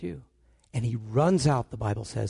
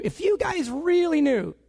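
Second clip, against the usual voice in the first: peak of the plea; 9 semitones higher than usual. Pretend. Asking the congregation, a slow high plea.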